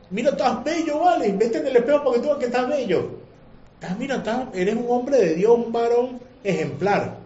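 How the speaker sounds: butter him up like a tempter; mock flattery. Evil inclination flatters the listener. (la inclinación al mal adula al creyente, voz aguda y zalamera)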